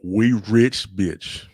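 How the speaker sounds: loud mock yell out a car window; scream out the window. Yelling to the rich neighbors out the car window, gleeful shout. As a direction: shout it like you just got rich.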